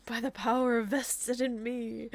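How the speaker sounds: slow line fighting back giggles; giggling slowly. Real, not acted. Narrator retrying the officiant line, slow and giggly. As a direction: keep cracking up on the words.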